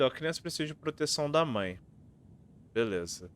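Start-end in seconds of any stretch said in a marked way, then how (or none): 0.1-1.8 brisk, slightly raised recital, falling at the end; verse read out loud and quick; reading verse aloud. Acted. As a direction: recite the line briskly like a rhyme. Reads the riddle aloud.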